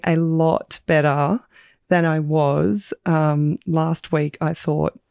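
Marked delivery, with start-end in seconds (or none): 4.4-5.0 hoarse, slow croaky voice. Real, not acted. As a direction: speak through a sore, croaky throat. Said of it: "I do apologise for the croaky voice".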